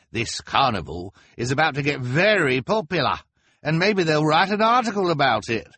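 high, loud excited fan; eager young man voice. A narrator's reading. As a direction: rush off to spread news. Man with pimples speaks.

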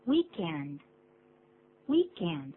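"Weekend" with the stress on WEEK, falling; first-syllable stress. Shown as a demonstration. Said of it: "重音是在第一个音节".

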